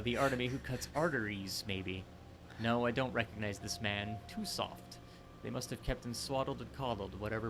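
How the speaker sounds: lightly put-on British villain accent; bad British. Sizing up an old pal, in a bad British accent. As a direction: attempt a British game villain. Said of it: "bad British".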